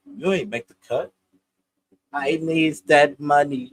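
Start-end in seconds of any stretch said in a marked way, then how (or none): 2.1-3.7 slow quoted movie line; slow Set It Off quote; Vivica impression. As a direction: drag out the line like the movie character. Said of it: "What Vivica saying, set it off".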